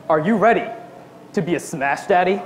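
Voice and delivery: deadpan manager imitation; level, blank delivery of an absurd question; emotionless. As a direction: ask it with no feeling at all. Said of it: "Completely emotionless".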